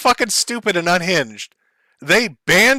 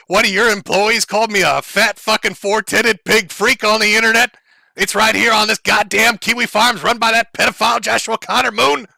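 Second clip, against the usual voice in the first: mock screaming rant; 4 semitones higher than usual. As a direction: ham up an enraged man yelling at HR. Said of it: "He's just screaming".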